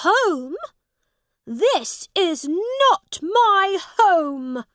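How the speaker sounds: high, loud, drawn-out protest; crying out. A narrator's reading. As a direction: cry it out slowly in indignant disbelief. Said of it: "he cried out".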